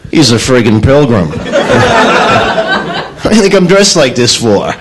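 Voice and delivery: mildly fed-up schoolboy; lightly voiced annoyed kid; a touch of a sulky kid. Pilgrim's son answering the teacher with mild annoyance.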